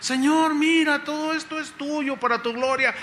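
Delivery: high-pitched, devoted offering; humble disciple. Acted. Disciple offers the fruit to the Lord, humble devotion. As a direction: present it all to the Lord. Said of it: "la humildad empieza a ganar".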